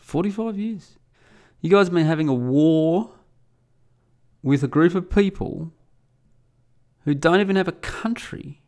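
high, incredulous mockery; mocking. Mocking an Israeli guest over the long war, high-pitched taunting. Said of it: "I just started mocking him openly".

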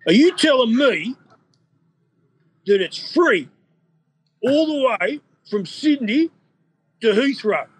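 put-on high, slow Cypriot accent in disbelief; slow, astonished Cypriot accent; Con's amazed accent. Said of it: "the, the Con accent".

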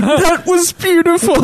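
high, mock-moved henchman voice; mock teary henchman. Retelling the henchman weeping at the tirade, mock-moved. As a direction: gush it like a big softie, hammed-up. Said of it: "like, crying".

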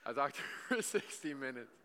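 laughing. Real, not acted. Repeats it with a laugh.

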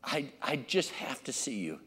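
put-on insistent child pleading, starting soft; soft plea building to urgent repetition; desperate pleading. Desperate child at dad's bedside at midnight, pleading. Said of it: "they came in with a desperation".

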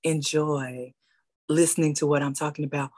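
radio voice. Shown as a demonstration. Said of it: "I do not talk like this".

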